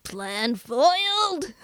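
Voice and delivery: slow, drawn-out mock villain line; mustache twirling villain. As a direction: ham up the defeated villain. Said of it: "like this evil, like, mustache twirling villain".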